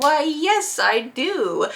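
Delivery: a mock-regal little yes; princess accepting gifts. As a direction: accept like royalty.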